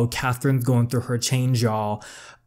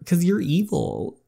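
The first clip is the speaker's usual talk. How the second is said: high sneering voice; 8 semitones higher, slower than usual. Acted. Another girl mocks the sister.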